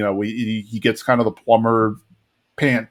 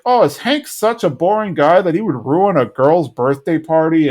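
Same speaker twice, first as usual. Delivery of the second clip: higher, complaining imitation; mock upset; 4 semitones higher than usual. Mothers upset at pickup, mildly acted higher-pitched complaint. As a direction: retell it as a put-out mother's complaint. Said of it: "Nancy and Min are really upset".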